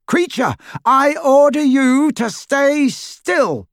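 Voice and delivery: loud high bellowed command; bellowing. A narrator's reading. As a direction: roar the order over the screams. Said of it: "Harry bellowed louder than both".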